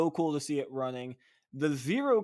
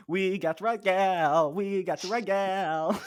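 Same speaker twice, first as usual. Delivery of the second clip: higher, louder cowboy whoop; excited cowboy holler; 5 semitones higher, 6 dB louder than usual. Pretend. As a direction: yell it like a rodeo cowboy. Catchphrase hollered twice, cowboy style.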